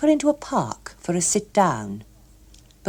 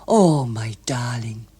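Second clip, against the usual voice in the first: whispered endearment; 6 semitones lower, slower than usual. A narrator's reading. Attempting a kiss.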